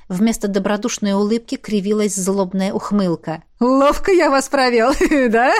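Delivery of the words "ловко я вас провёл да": cackling through a taunt; villain chuckling over his trick; gloating laugh. A narrator's reading. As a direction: laugh at how well he fooled them. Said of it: "хохотнул он".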